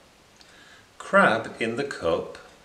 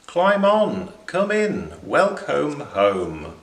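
much higher, louder, then slow welcome home; joyful welcome; 4 semitones higher, 3 dB louder than usual. Acted. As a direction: call them in gladly. Bristleworm calling friends home.

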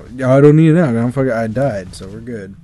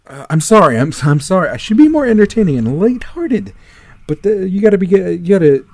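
higher, agitated apology; exasperated apology; 7 semitones higher, 5 dB louder than usual. Real, not acted. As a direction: apologize in a raised, flustered voice. Apologizing to viewers mid-rant.

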